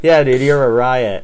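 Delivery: loud words through laughter; laughing. Real, not acted. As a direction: crack up while joining in. Playing along, cracking up.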